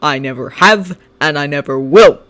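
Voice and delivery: scowling. Acted. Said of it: "Shinso scowled".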